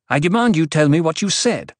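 indignant command; imperious demand. A narrator's reading. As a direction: insist on an answer at once. Acted quarrel, demands an answer.

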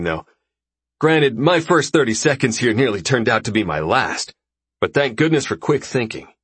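lightly voiced breezy host; easygoing dinner host, a bit brighter; casual host voice. Raxus chatting to newcomers.

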